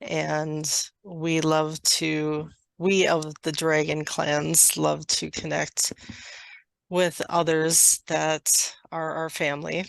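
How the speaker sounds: slow, measured channeled delivery; channeled message. Acted. Dragon clan sends love to a listener, slow channeled message. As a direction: speak evenly, pausing between phrases.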